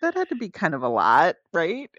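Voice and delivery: very high mock-reasonable voice, easing down; sarcastic self-debate. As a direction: argue with yourself in a squeaky, hesitant pitch. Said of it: "sarcastic kind of debate with myself".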